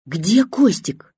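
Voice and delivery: громко, медленно, выше обычного; протяни вопрос криком. A narrator's reading. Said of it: "неожиданно крикнула бабушка". (бабушка вдруг кричит дочери: медленный громкий крик)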